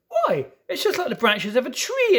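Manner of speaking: bright wondering cry with a laugh; Lucy marvels aloud, a little laughing; excited exclaim. A narrator's reading. Lucy discovering branches in the wardrobe, laughing in wonder. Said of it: "exclaimed Lucy".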